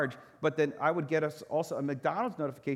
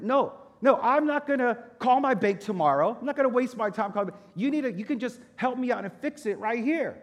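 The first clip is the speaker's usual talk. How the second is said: raised, loud angry insistence; getting louder; 8 semitones higher, 5 dB louder than usual. Retold or imitated. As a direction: refuse flatly and push him, higher and louder. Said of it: "like, louder and louder".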